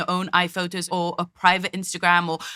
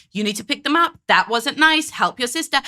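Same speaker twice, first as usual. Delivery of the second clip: mild mock parental yell, slightly higher; retold yelling; 3 semitones higher than usual. Commentator quoting a mother to her son, mild mock yelling. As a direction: imitate a mother ordering her son about. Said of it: "she's yelling at him".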